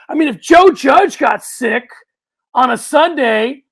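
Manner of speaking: sarcastic, loud and slowed, building to the question; mock outrage. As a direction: ham up the disbelief at the idea of losing the coach. Mock outrage about the Giants.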